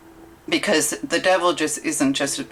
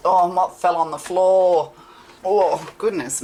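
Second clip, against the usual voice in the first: startled; 4 semitones higher than usual. Real, not acted. A card falls to the floor.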